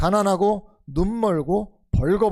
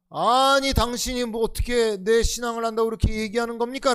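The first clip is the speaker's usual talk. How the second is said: elder snaps back at the pastor, indignant; fiery outburst; 4 semitones higher than usual. Retold or imitated. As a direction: bristle back at the pastor in mock fury. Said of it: "라고 불같이 화를 내는 것처럼".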